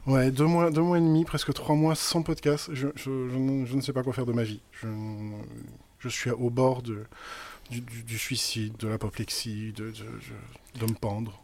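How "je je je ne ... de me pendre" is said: mock despair. Faux désespoir sans podcast.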